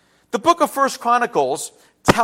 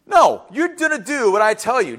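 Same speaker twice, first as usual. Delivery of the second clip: firm parental order; 2 semitones higher than usual. Retold or imitated. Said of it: "and it was quick".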